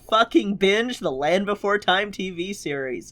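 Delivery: rally your partner with real gusto; over-excited hype. Real, not acted. Host rallying co-host to binge a series, over-excited. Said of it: "you're at about an eight".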